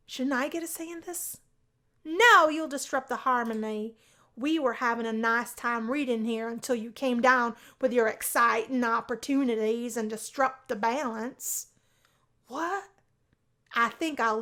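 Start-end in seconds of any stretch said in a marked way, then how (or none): 2.0-11.7 louder mock reproach; playful scolding. Sally telling the roommate he disrupts the harmony, louder mock scold. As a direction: shoo him off in mock outrage.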